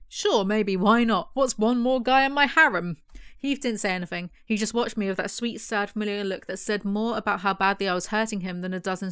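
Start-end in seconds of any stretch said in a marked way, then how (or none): 0.1-3.0 a flippant mock of Zoe, louder at the end. Reviewer mocking Zoe's careless answer, flippant and louder. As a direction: toss it off carelessly. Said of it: "She's like".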